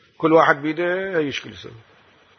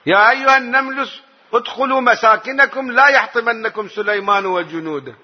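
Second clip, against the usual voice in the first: the ant's warning; 6 semitones higher than usual. Retold or imitated. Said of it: "نملة سليمان شنو قالت".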